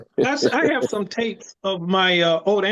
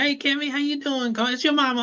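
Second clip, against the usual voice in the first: higher, lightly voiced mother on an answering machine; voicing late mother's answering-machine message, lightly higher mom voice; imitating his mother; 9 semitones higher than usual. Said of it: "I heard my mother's voice".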